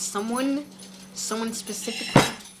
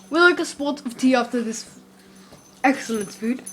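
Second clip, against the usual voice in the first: mock-genteel British accent. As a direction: play at being British over dinner. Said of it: "That's my British accent".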